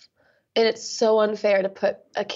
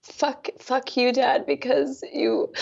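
higher and slow, hurt rising through; slow, higher, aching version of the line; slow pained repeat; 4 semitones higher, slower than usual. Real, not acted. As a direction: let the hurt slow every word down. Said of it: "just see if we can get at the rage".

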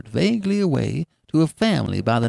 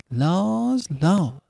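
mild, drawn sigh of sympathy; a touch of woeful astonishment; sighed dismay; 6 semitones higher than usual. A narrator's reading. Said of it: "sighed Missus Race".

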